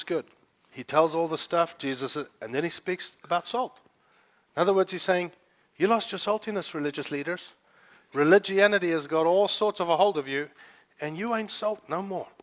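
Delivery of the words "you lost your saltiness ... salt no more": higher, cheeky blunt rebuke; bluntly rebuking religious leaders. Retold or imitated. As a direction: say it straight and cheeky. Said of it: "if I spoke like that".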